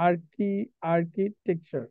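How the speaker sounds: "আর্কিটেকচার" split as আর্কি, then টেকচার; broken into parts. Shown as a demonstration. Teacher breaking down the example, "আর্কিটেকচার" in separate parts. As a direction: say "আর্কি", restart, then set "টेकচার" apart.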